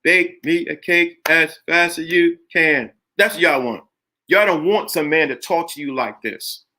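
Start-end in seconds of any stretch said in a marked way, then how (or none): 0.0-2.9 slow, sing-song nursery rhyme; sugarcoated nursery rhyme. Retold or imitated. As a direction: coo it like a rhyme for a toddler. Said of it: "Maybe you want somebody to".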